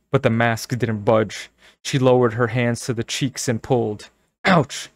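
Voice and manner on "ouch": high shrieked yelp. Acted. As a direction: shriek in pain. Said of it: "Carly Beth shrieked".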